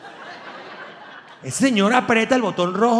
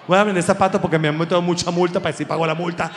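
mock Trump; faster than usual. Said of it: "Un presidente vendiendo zapatos".

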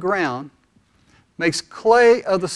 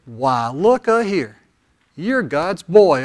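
lightly voiced country redneck, slow and easy; half-hearted slow redneck drawl; 2 semitones lower, slower than usual.

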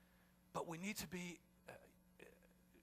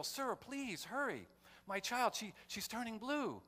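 desperate father pleading; 10 semitones higher, slower than usual. Retold or imitated. Father in back seat begging reporter to hurry, raised pleading voice. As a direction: beg him to hurry, voice raised and strained.

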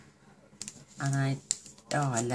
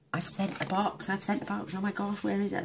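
higher, fretful voice imitating a worried friend; mock panic; 7 semitones higher than usual. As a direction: play her frantic messages back, a little hammed-up. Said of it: "She was panicking all over the weekend".

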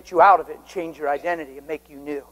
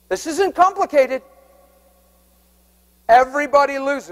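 forceful preaching; 8 semitones higher, 4 dB louder than usual. Real, not acted.

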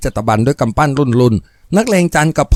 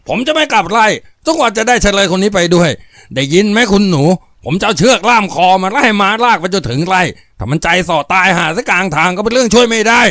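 higher, heated defiant snarl; defiant threat; 8 semitones higher than usual. Acted. Thug Jan defiantly refusing the daughter's order. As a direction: refuse her flat out.

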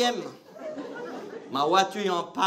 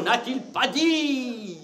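slow declaiming; 4 semitones higher, much slower than usual. Shown as a demonstration. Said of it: "qu'est-ce qu'il n'a pas dit".

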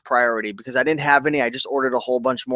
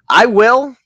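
emphatic reply; 9 semitones higher, 8 dB louder than usual. Real, not acted. Answering a viewer's message.

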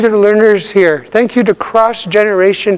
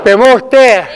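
raised teaching voice, falling at each word's end; louder; 2 semitones higher than usual. Shown as a demonstration. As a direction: call each word out a little louder for the class.

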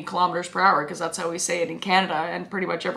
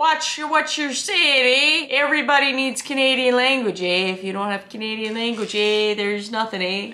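mock offended; 2 semitones higher than usual. Mock-scolding over Canadian language jibe.

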